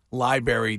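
LIBRARY as "lie-berry", with no r after the b; Massachusetts pronunciation. Retold or imitated. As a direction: drop the first r in library. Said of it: "a, a masshole pronunciation".

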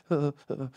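shuddering breaths, mimicking the chills; imitated shivering. Describing hungover chills, acted shivering sound. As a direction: shiver out short puffs of breath. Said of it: "And then you're shivering".

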